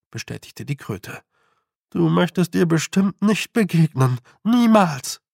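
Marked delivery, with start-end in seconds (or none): 1.9-5.2 higher, emphatic toad voice; lightly voiced toad, urgent warning. A narrator's reading. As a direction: warn her, landing high and loud on the last word. Toad warns Tiffany.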